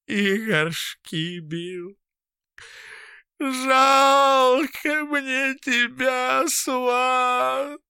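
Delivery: crying lament; tearful lament. A narrator's reading. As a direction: sob out the pity. Crying Fityulka.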